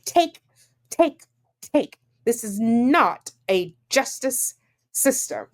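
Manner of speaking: high, sing-song "take, take, take"; mocking mimicry. Mocking the writer's complaint.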